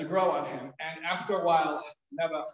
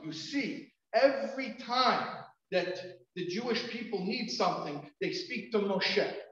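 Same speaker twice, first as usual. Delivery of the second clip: raised, higher voice, retelling her outburst; mildly raised retold yell; retold impassioned cry; 5 semitones higher, slower than usual. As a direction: imitate a wife making her case to her husband, voice lifted. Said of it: "I was screaming at the top of my lungs".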